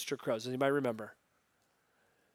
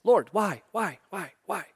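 impatient Peter; 3 semitones higher than usual. Retold or imitated. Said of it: "Peter's just impatient".

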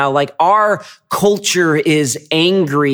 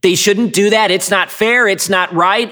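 mock complaining; 5 semitones higher than usual. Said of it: "And we're like".

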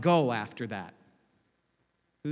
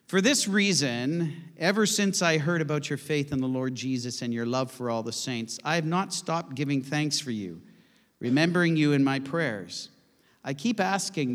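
scripture reading; 4 dB louder than usual. Acted. Reads scripture aloud.

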